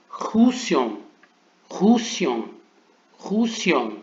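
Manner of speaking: rusion with a rough throat R at the start; teacher drilling the guttural sound. Shown as a demonstration. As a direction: scrape the r of rusion in the throat, repeated. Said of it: "é deixar ele mesmo gutural".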